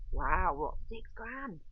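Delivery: high, outraged gasp at the price; stunned disbelief. Retold or imitated. Telling viewers about the doubled fee, stunned and high. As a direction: shoot up in pitch at "six grand".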